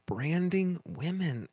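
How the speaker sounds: breathless whisper of disbelief; horrified whispered repeat; shocked whisper. Real, not acted. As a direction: hush it like it's scandalous.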